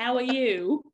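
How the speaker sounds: lightly attempted British accent. Shown as a demonstration. Podcast host giving a British accent a try. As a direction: have a go at sounding British. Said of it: "can you do a British accent?".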